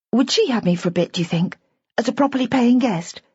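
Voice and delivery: put-on a hopeful young bride pleading lightly; young woman voice. Bridget voiced in narration.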